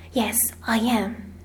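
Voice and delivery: slow, breath-only whisper. A narrator's reading. Sarah admits to her friend she is hungry, whispered. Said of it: "she whispered".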